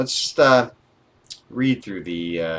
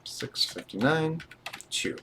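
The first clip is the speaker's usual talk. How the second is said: slower and higher, reading out as typed; slow careful dictation; 8 semitones higher, 5 dB quieter than usual. Shown as a demonstration. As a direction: spell out "Six fifty-nine" slowly while typing it in. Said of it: "Let's make sure it looks exactly as entered".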